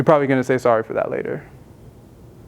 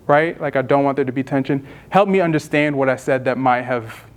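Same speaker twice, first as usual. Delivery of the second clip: calm reassuring; 2 semitones lower than usual. Shown as a demonstration. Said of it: "but you can be like".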